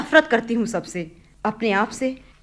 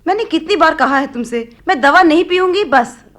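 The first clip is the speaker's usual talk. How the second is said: angry refusal; 4 semitones higher, 3 dB louder than usual. Acted. Daughter refusing medicine, angry.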